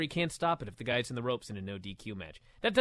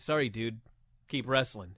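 lower, offhand mock referee; unmoved referee; 5 semitones lower, 4 dB quieter than usual. Referee refusing to stop the match for a dying wrestler, mock indifference. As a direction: brush off the plea as an indifferent ref. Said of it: "The ref's like".

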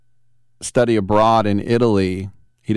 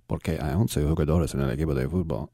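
put-on Spanish accent; 7 semitones lower, 8 dB quieter, faster than usual. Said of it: "I can't say it with a Spanish accent".

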